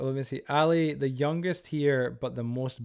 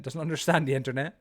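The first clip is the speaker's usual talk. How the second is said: laughing; 2 semitones higher than usual. Real, not acted. Repeat joke laughing.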